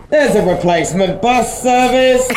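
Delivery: a hint of UK rail announcer; train announcer voice. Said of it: "this would be what you're hearing".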